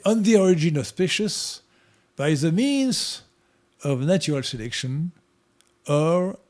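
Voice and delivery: slow, careful English with a French accent. Shown as a demonstration. Reciting a book title in English for the host, in a French accent. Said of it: "Je vais le dire en anglais".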